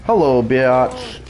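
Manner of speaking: mocking. Real, not acted. Greeting downed survivor mockingly.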